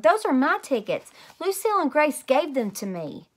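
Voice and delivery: put-on high, loud child protest. Junie B insisting to the teacher, loud and high. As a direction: insist loudly they're yours.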